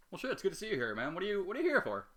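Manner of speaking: high, loud, over-the-top surprise; excited greeting. Acted. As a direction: greet him like an old buddy.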